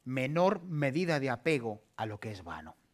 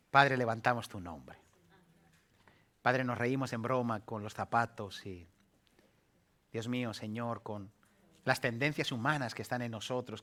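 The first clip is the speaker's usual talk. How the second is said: prayer. Acted. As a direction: pray to the Father, unhurried. Closing prayer.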